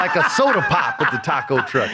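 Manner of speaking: high laughing line. Real, not acted. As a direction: laugh through it.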